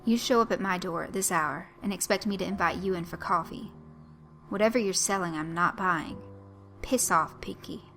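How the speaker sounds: angry refusal. Acted. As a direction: shut him down with rising irritation. Blaine angrily refuses the stranger.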